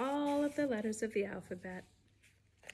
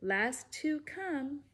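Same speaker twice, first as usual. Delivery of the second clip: sing-song storybook read-aloud; lively read-aloud rhyme voice; reading to children. Acted. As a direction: bounce the rhymes for little listeners. Reads picture book to kids.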